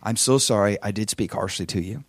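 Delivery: low, soft mock contrition; bad apology. Shown as a demonstration. Husband showing how not to apologize to wife, mock-contrite. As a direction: set up a half-hearted apology quietly. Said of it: "here's how you don't do it".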